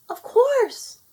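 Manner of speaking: a happy, smiling promise; with a smile. A narrator's reading. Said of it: "Laurel said with a smile".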